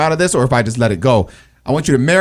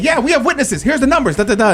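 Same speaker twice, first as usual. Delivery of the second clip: retold eager reply; 9 semitones higher than usual. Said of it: "I was like".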